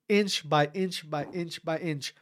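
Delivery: slow, softened, measured repetition; slow and quiet, like a snail; slow creeping. Retold or imitated. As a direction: creep through it word by word. Acting out a snail's slow progress.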